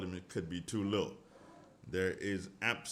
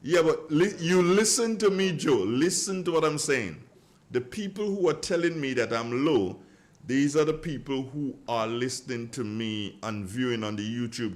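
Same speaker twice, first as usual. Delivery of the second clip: raised voice; 3 semitones higher, 5 dB louder than usual. Real, not acted. Explaining forcefully to loud caller.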